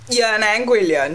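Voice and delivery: ordinary delivery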